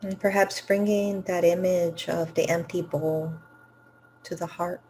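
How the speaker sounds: unhurried phrases with long pauses between; guided meditation. Real, not acted. Teacher leading students to empty the cup of the heart, guided meditation. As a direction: guide them gently inward, leaving room to breathe.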